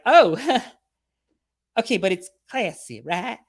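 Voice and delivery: high, loud, unsure voice with a laugh; woman persuading herself to pose, high and unsure; mock nervous woman. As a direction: talk yourself into it, half-laughing. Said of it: "And she's like".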